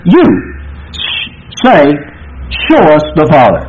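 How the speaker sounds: "you" pushed hard, then a breathy "s-, say"; emphatic you. Shown as a demonstration. Preacher reads Jesus rebuking Philip, stress on "you". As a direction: lean on "you" before "'Show us the Father'". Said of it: "emphatic here".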